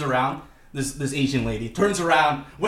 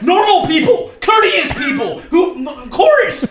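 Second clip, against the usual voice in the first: high, loud argumentative comeback; retold indignant shouting; 12 semitones higher, 8 dB louder, slower than usual. Him yelling back at people who cut in line, indignant shouting. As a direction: re-enact yelling back, pitched way up.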